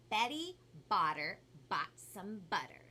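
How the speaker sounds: slow, careful tongue twister. Shown as a demonstration. Teaching viewers a tongue twister, said slowly. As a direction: spell it out slowly, word by word. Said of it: "On the count of three, slow".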